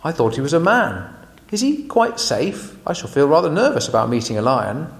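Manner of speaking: put-on a touch of nervous girl, rising; lightly voiced Susan. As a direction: fret a little about the lion. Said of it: "said Susan".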